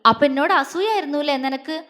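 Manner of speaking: quick, mock-serious accusation; brisk pretend-stern asking; serious question. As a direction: tease her with a stern face. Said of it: "അവള് ഗൗരവത്തോടെ ചോദിച്ചു".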